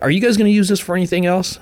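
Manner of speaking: put-on high, fast fussy old prospector. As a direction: quiz him like a fussy old shopkeeper. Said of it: "it's an old prospector guy".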